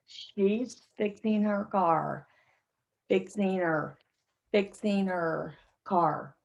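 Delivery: "fixing her" slow, h dropped, blended as "fixing'er"; slow reduced drill. Shown as a demonstration. Teacher drilling the class slowly on the blend. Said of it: "let's practice this again".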